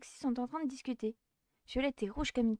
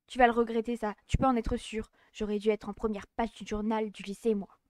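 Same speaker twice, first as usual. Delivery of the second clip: threatening rival; 4 dB louder than usual. Acted.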